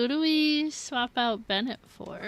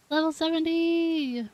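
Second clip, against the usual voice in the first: laughing cheer; 7 semitones higher than usual. Real, not acted. Celebrating again through laughter.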